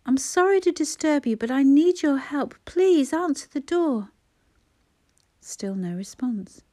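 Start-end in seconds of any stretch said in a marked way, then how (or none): 0.1-4.1 high, loud, urgent pleading; anxious plea. A narrator's reading. Mother begging neighbour for help, anxious plea. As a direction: beg for help, slowing at the end.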